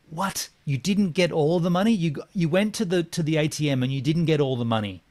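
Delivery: can't believe what you're hearing; incredulous. Retold or imitated. Questioning the buyer who came back short, incredulous. Disbelief at missing money.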